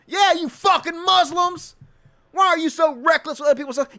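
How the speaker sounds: mock the bigot's fake outrage; sarcastic mock outrage. Mocking Vance's double standard in sarcastic outrage. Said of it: "This raises the question".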